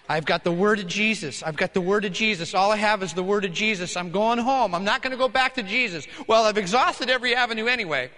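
loud, insistent repetition; father loudly clinging to a promise; determined self-talk. Acted. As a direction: keep convincing yourself, loudly. Acting out the father walking home.

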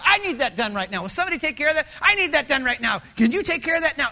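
bossy orders. Retold or imitated. Bossy leader barking orders.

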